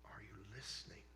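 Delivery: barely voiced, hushed ask; soft whispered repeat; whispered question. Shown as a demonstration. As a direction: whisper it to draw them in. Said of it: "whispered repeat of the question".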